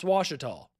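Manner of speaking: "Washita" as WASH-ih-taw; "Washita" as locals say the river's name; local pronunciation. Shown as a demonstration.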